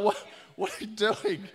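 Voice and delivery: mock freak-out. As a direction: act out her freak-out without much volume. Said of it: "freaking out".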